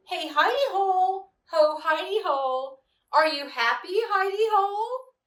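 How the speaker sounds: sing-song call, high and loud on hidey. A narrator's reading. Rabbit calls teasingly into the hidey hole, sing-song.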